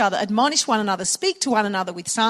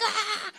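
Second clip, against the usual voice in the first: mock scream; 10 semitones higher, 9 dB quieter than usual. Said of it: "seeing how loud they could scream".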